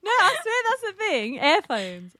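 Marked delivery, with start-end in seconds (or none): 1.4-2.1 "Airphones" with ear turned into "air"; mispronounced earphones. Real, not acted. Insisting to friends that's the thing, mispronounced earphones. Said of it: "I can't say ear".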